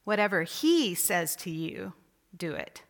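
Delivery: HE lifted with a rise; stress on HE. Shown as a demonstration. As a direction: lean on the word he. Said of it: "each time you emphasize a different word or phrase".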